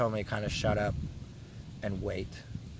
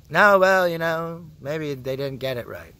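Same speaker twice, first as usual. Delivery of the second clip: dismissive hospital staff; 3 semitones higher, 5 dB louder than usual. Acted. Hospital staff brushing off his x-ray complaint, mock-dismissive.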